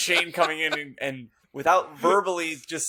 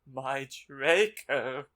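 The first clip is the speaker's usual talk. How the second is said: moaning; much slower than usual. Acted. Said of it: "he moaned".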